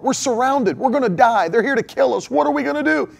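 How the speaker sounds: a servant freaking out at the enemy soldiers; panicked servant. Acted. Servant to his master, panicking about the enemy army. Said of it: "He's freaking out".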